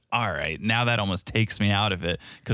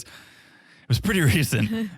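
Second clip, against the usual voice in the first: slow, higher mock drawl on recent; imitating her smug tone; mock smug Jasmine; 7 semitones higher, slower than usual. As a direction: stretch it out smugly. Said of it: "The way she goes".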